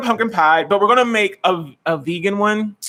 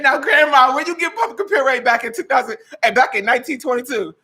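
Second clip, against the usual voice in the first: high questioning; 6 semitones higher than usual. Retold or imitated. Questioning Grandma, high and incredulous. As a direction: pitch up, incredulous. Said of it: "I said".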